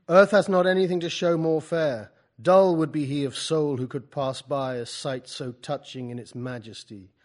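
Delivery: loud, grand recital of the view; Wordsworth proudly showing off. Acted. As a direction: declaim proudly, like showing off a sight. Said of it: "Let Wordsworth guide you to the open window".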